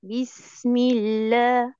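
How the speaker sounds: بسم الله said very slowly and easily, no pressure; the right relaxed way; relaxed recitation. Shown as a demonstration. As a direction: let بسم الله flow loose and light. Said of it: "بريحية أكتر".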